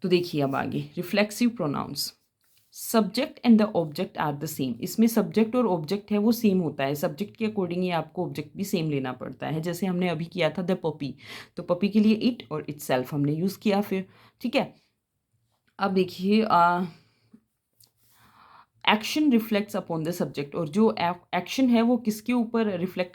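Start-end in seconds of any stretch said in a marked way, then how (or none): 1.0-4.8 reads the rule out slowly for notes; slow, clear English rule read to students; slow dictation read. Shown as a demonstration. Teacher reading a grammar rule aloud to the class, slow and clear. 18.9-20.6 reads the rule out slowly for notes; slow, clear English rule read to students; slow dictation read. Shown as a demonstration. Teacher reading a grammar rule aloud to the class, slow and clear.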